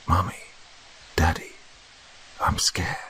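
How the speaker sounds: eerie many voices. A narrator's reading. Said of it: "several voices at once".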